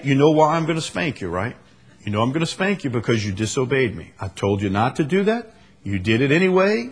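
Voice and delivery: put-on measured, unangry talk with a child; calm parental explanation. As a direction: explain the punishment without raising your voice. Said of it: "calm down so that you're not mad".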